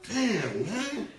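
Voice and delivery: half-yell at him while cracking up; laughing mock yell. Yelling at crying friend on TV, laughing. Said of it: "I'll be like".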